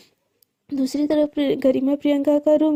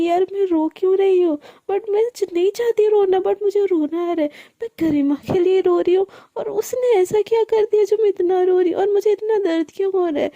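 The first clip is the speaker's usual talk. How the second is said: crying thoughts; 5 semitones higher than usual. Acted. Priyanka crying alone over her friend Garima, tearful and higher. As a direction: speak through tears, confused why it hurts. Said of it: "वो रोते रोते भी सोच रही होती है".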